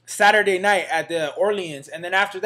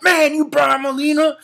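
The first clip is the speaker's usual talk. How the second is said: curious fan; 6 semitones higher, 5 dB louder than usual. Retold or imitated. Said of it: "the dude was like".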